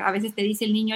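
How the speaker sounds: normal talking voice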